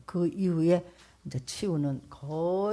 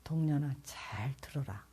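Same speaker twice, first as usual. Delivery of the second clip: voice of the Lord; 2 semitones lower, 6 dB quieter than usual. Retold or imitated. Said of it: "주님이 그러더라고".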